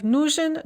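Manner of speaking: нужен stressed on its first syllable. Shown as a demonstration. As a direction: hit the ну in нужен. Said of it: "Note the stress shift".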